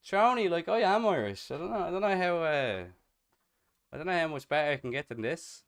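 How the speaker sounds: high, loud, hammed-up Irish voice; exaggerated Irish accent, loud and high; best Irish accent. Shown as a demonstration. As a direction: pitch it way up and lay the Irish on thick. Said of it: "Me best Irish voice".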